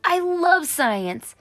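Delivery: high, bright burst of joy over science class; excited cheer. Acted. Kid cheering that science class has started, excited. Danny thrilled about science.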